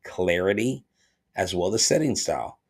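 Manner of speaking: measured, evenly pitched sponsor read; scripted host-read commercial; podcast ad read. Acted. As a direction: read the sponsor copy with deliberate phrasing. Reads a sponsor ad.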